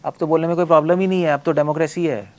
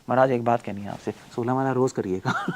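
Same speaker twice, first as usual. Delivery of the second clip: mock polite request; 3 semitones lower than usual. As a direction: gently ask the guru, half laughing. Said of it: "या महाराज को जाके बोलोगे". (विनम्र, हँसते हुए अनुरोध)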